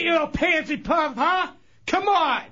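high, angry taunting shout; ranting yell. Real, not acted. Chunks ranting at the prankster over the air, high shouting. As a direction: bait him, full of contempt. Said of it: "All that ranting and raving".

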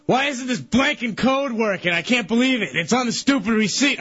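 irritated, retold. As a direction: imitate a man griping at a machine. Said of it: "he's getting pissed off".

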